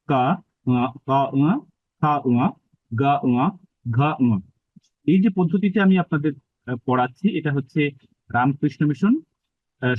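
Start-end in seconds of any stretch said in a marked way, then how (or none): 0.1-4.4 কা, খা, গা, ঘা from the throat, each followed by a nasal ঙ in "উয়া"; pronunciation drill pairing each throat consonant with a nasalised "উয়া", tongue staying put; throat-and-nose drill. Shown as a demonstration. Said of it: "তাহলে আপনার উচ্চারণটা শুদ্ধ হবে". (কা, খা, গা, ঘা কণ্ঠে, "উয়া" নাসিকাতে উচ্চারণ)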